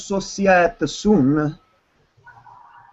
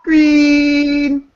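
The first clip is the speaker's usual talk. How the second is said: Buddy the Elf; 4 semitones higher, 4 dB louder than usual. Pretend. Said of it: "Buddy the Elf".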